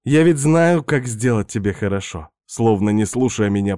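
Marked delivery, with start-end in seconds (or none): 0.0-2.3 Svetka's voice. Acted. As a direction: play the pushy houseguest luring him in. Narrator voices seductive Svetka.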